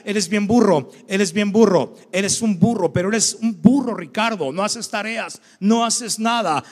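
mock-angry schoolteacher berating a student; scolding teacher. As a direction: hammer home "burro" like an angry teacher. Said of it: "una de las maestras me decía".

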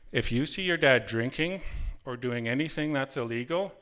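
measured mock-stern order, pausing before each part; strict instructions. Mother warning her son about dad's drinking, retold as strict instructions. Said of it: "Mom gave me strict instructions".

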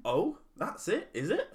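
posh 1930s crowd banter; old-timey newsreel voice. Acted. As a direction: play a jolly old-fashioned Englishman. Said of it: "our impression of the great song".

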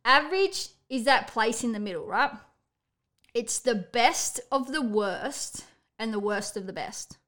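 reciting a quote. Real, not acted. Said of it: "here's a quote for you".

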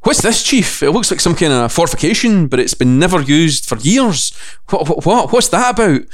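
a hint of Cortana's curious voice; lightly voiced Cortana. Voicing Cortana in the game.

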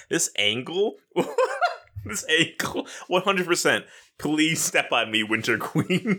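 high, giggling excitement; giggly. Real, not acted. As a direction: gush through bursts of laughter. Giggling over a picture of character.

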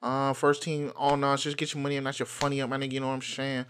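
lightly put-on urban slang patter. Host riffing on the new year, mock urban voice. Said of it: "I started talking like this".

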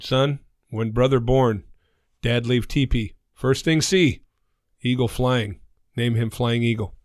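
measured phrases in a put-on Native American accent; mock Native American accent. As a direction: joke father's stilted Native American accent. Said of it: "Sorry about the accent".

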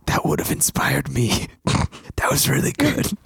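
giggling through the words; laughing praise. Acted. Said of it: "Pats you on the back and says".

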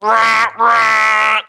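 signature cheer. Acted. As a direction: belt out your catchphrase cheer. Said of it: "That is your signature line".

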